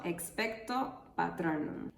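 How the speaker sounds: "expecto" with the voice dropping on TO; falling last syllable. Shown as a demonstration. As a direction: let the pitch fall at the end of "expecto". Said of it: "tiene una entonación descendente en la última sílaba".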